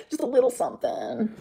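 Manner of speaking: teasing. Shown as a demonstration. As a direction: dangle it like a little secret. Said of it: "It's my turn to say just a little something".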